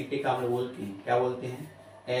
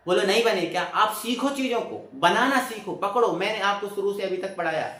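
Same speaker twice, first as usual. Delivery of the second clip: raised, higher-pitched teacher's push; exasperated scolding; 5 semitones higher than usual. Real, not acted. Teacher chiding students to learn the formulas, exasperated. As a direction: press them insistently, pitched up.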